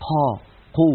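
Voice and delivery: "قا" و"قو" بهواء متدفق; قاف مهموسة بنفَس; breathy qaf. Shown as a demonstration. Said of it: "يجعلون كمية من الهواء تتدفق". (قاف بتدفق الهواء)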